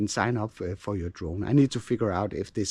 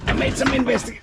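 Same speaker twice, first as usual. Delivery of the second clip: strained, pitched up while lifting; carrying heavy load; 12 semitones higher, 4 dB louder, faster than usual. Real, not acted. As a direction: cut off by a heavy lift. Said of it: "this is heavy".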